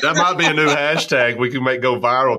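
real delight bubbling over into laughter; delighted laughing. Real, not acted. Host loving the guest's hashtag, laughing.

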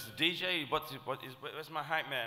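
high, loud put-on voice; imitated agitated demand. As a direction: mimic a flustered performer hunting for crew. Acting rapper demanding his hype man.

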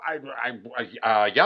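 halting, stuck on the first word; mildly acted hesitation; retold flustered stammer. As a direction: stumble before getting the answer out. Flustered father answers patrol.

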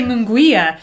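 Munguia said with a gw sound, "moon-GWEE-a"; mispronounced Munguia. Shown as a demonstration. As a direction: say Munguia with an audible w after the g. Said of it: "I always wanna say Munguia".

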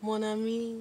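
steady French greeting; put-on French accent. Shown as a demonstration. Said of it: "we haven't put down French".

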